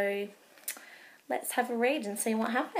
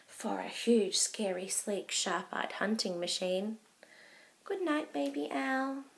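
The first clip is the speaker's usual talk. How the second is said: real whisper, soft and tender; 8 dB quieter than usual. Acted. Mum whispering goodnight to Baby Owl. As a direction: whisper it to a sleeping child. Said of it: "whispered Mum".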